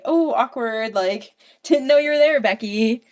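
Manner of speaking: loud, high, laughing embarrassment; retold awkward laughing. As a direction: caught out and laughing it off. Mom caught gossiping, laughing.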